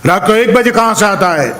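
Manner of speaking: policeman shouting. Retold or imitated. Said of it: "પોલીસે બૂમ પાડીને પૂછ્યું".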